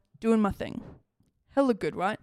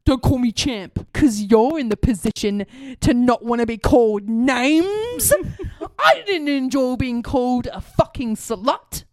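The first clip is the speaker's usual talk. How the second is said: slow, deliberate telling-off; mildly angry, each phrase pushed out slowly; retold riled-up scolding; 4 dB louder, slower than usual. Woman scolds neighbour over name-calling, mildly acted anger. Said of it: "I was all mad and riled up".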